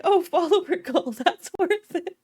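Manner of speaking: high, loud, laughing imitation; laughing mock quote. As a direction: imitate an eager viewer through laughter. Laughing retelling of viewer's thought.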